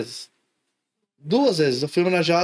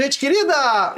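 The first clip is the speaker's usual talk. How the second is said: "gente querida!" cut in abruptly, a bit higher and louder; teacher catchphrase; 6 semitones higher, 3 dB louder, slower than usual. Retold or imitated. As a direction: break off the sentence with the catchphrase. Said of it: "sempre interrompia a frase". (professor encerra a aula com o bordão)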